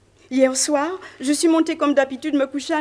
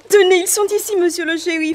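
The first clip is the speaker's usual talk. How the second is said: calling out; 3 semitones higher, 3 dB louder than usual. Acted. Calling sheriff to the bodies.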